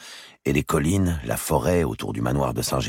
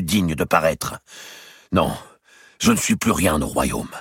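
high, loud, wounded pride; indignant Robert; 6 semitones higher, 4 dB louder than usual. Acted. Robert protesting to his brother the king, indignant and loud. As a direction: storm in and throw it all back at the king.

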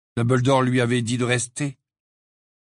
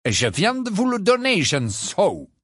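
silky voice; 9 semitones higher than usual. A narrator's reading. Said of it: "d'une voix doucereuse".

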